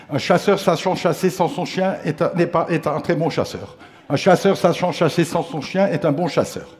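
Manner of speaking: tongue twister recited in a steady rhythm; fluent tongue twister. Retold or imitated. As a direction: rattle it off proudly like a lesson learned. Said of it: "une école de bégaiement".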